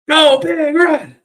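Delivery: high, drawn-out shouted cheer; stretched-out fan's battle cry; rally cheer. Real, not acted. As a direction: belt the team cheer slowly. Team cheer sign-off.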